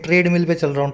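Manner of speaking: "ट्रेडमिल" said as trade-mill in a casual quote; imitated mispronunciation. Teacher imitating people on the machine, "ट्रेडमिल" mispronounced as trade-mill. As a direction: imitate someone saying "ट्रेडमिल" with a long ay. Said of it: "ट्रेड नहीं है वो".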